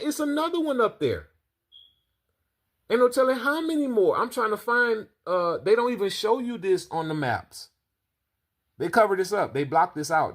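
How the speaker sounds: shocked. Real, not acted. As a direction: gasp it out in disbelief. Reacting to strange satellite picture.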